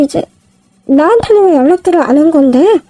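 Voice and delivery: ordinary delivery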